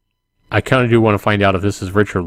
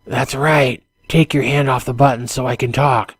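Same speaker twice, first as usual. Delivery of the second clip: put-on higher-pitched voice with a light French accent; 5 semitones higher than usual. Man on intercom to intruder, light French accent. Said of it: "a male voice says with a light French accent".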